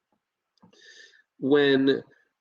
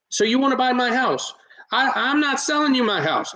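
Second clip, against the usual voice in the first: higher-pitched retold objection, cutting in; imitating brusque homeowner; 10 semitones higher than usual. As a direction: cut the caller off as a defensive homeowner. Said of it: "he cut me off".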